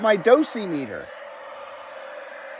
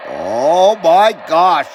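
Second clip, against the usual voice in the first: amazed; 2 semitones lower, 5 dB louder, much slower than usual. Real, not acted. Delighted at the smoke meter.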